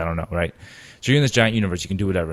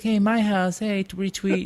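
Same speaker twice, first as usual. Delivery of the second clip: eager fan; 12 semitones higher than usual. Retold or imitated. Voicing eager fans.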